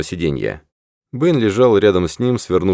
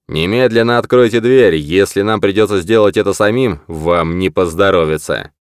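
громкий, грозный приказ с угрозой; грозно крикнуть через дверь, с угрозой; суровый окрик. Acted. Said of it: "В зловещем голосе слышалась настоящая угроза". (зловещий окрик с угрозой)

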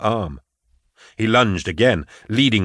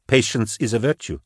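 lightly voiced woman, a little raised; confirming the saying; 2 semitones higher than usual. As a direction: echo it lightly in agreement. Kara repeats the saying back.

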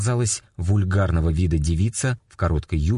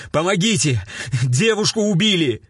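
high frantic yell for help; shouting for help; 12 semitones higher than usual. A narrator's reading. Narrator bursts into police station shouting for help. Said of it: "я с порога закричал".

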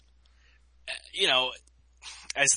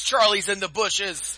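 slow, higher, loud dramatic warning; drawn-out war movie shout; 7 semitones higher, 7 dB louder, slower than usual. Pretend. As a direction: stretch the warning out, slow and theatrical. Repeats quote, drawn out.

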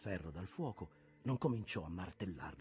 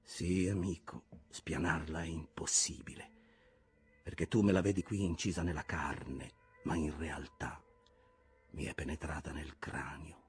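louder, forceful captain with whispered dips; commanding Ahab; 7 dB louder than usual. Acted. Ahab ordering the harpoon from the smith, forceful and louder.

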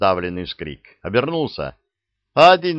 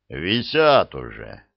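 deep bass; 3 semitones lower, slower than usual. Acted. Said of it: "пробасил десятник".

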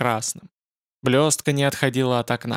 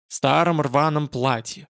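plain reading voice

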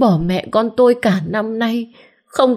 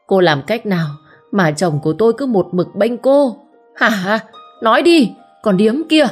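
shouting scold; 4 semitones higher than usual. Acted. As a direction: berate her in front of the crowd. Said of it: "Sau đó quát lớn". (vợ Bút quát lớn trước đám đông)

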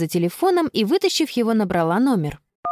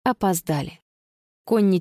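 usual speaking voice

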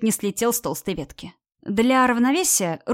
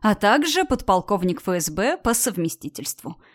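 ordinary delivery

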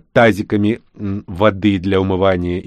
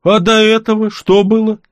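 high, loud outraged question; outraged, can't believe it; indignant question; 12 semitones higher, 5 dB louder than usual. Acted. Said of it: "Моему возмущению не было предела". (возмущённый вопрос)

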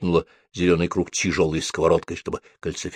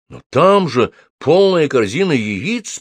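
slow, amazed protest; astonished; 7 semitones higher, 4 dB louder, slower than usual. A narrator's reading. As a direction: sound amazed at the full basket. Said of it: "поразилась Софи". (изумлённо)

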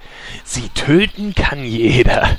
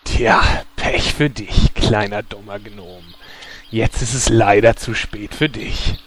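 höhnischer Schurke; 5 semitones lower, 3 dB quieter than usual. Acted. Schurke verhöhnt den Gnom.

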